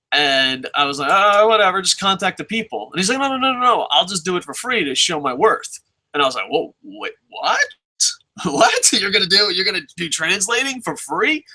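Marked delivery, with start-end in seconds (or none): 1.1-2.9 higher, louder brush-off; dismissive. Retold or imitated. Brushing off an eager applicant. 3.2-5.8 eager insisting. Retold or imitated. 6.5-11.4 surprised. Retold or imitated. Disbelief at free work offer.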